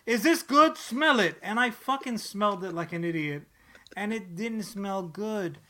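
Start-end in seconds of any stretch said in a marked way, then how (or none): 0.1-1.4 mock friendly offer. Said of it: "he pulled the".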